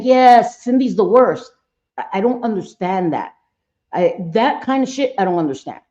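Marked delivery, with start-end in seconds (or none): 0.0-1.5 mock enthusiastic chiming in, louder at the start; eager agreement. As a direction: imitate someone piling on. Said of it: "and you're like".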